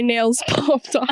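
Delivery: 笑いながら言う; giggling through the words; laughing. Real, not acted. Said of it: "Excuse me".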